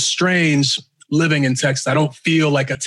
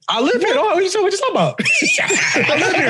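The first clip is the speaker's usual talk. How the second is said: high, laughing Texan twang; mock Texan accent; 13 semitones higher, faster than usual. The speaker imitating Texans, laughing, in a Texan accent. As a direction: play up a Texan defending himself. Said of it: "That's a Texas accent".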